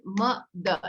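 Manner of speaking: slow, syllables apart; syllable demo. Shown as a demonstration. Teacher modeling a syllable clap. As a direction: model the word for the child. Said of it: "So I say".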